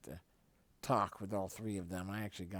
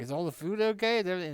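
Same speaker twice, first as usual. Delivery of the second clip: higher, louder mock-polite check; mock concern; 9 semitones higher, 9 dB louder, much faster than usual. Son checking the table after the bump, high mock-polite voice. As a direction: ask about the food in a raised mock voice. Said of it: "I was like".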